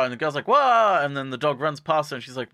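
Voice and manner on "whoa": high, loud whoa; mock startled cry. Girl as the dog bursts past, startled. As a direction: yelp it as if caught off guard.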